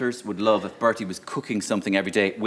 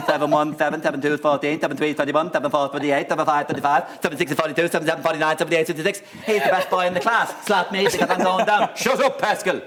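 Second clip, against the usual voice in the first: eager class swot reciting tables, pitched up; imitacja Pascala Donoghue; 4 semitones higher than usual. Acted. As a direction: rattle off sums, climbing ever higher. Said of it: "Pascal Donoghue would be a great Taoiseach".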